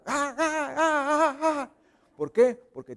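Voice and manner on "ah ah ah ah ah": high-pitched comic "ah-ah-ah" shrieks; mock screaming. Preacher mimicking women who see a mouse, mock screams. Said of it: "Muchas mujeres empiezan a gritar".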